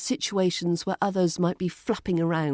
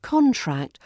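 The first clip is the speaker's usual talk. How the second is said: CON-tract with a high, falling first syllable; first-syllable stress; 5 semitones higher than usual. Shown as a demonstration. Teacher repeating the noun contract for learners, first syllable stressed. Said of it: "where the stress falls on the first syllable".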